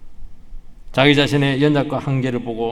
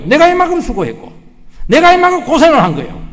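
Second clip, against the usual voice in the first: 내가 punched high and loud; stress on 내가; 12 semitones higher, 8 dB louder than usual. Retold or imitated. Preacher mimics a proud servant, stressing 내가. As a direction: lean hard on 내가, self-important.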